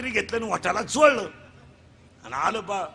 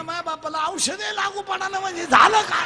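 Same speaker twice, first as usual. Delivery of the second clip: put-on much higher, louder, laughing boy voice; high mock boy shouting; 9 semitones higher, 5 dB louder than usual. Boy shouting about his father, high and laughing. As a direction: squeal it like a cheeky boy. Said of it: "ते पोऱ्या म्हणलं".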